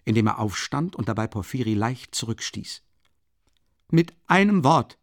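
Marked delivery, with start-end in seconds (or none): 3.9-5.0 louder, higher, falling firmly on einem; emphatic repeat. Acted. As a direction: nail einem down and close it. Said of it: "sagte er laut und nachdrücklich".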